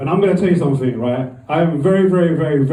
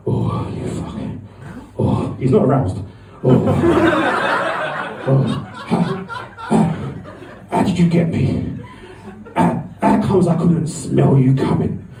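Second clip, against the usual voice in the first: wounded groaning. Retold or imitated. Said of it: "the racist guy's on the floor like".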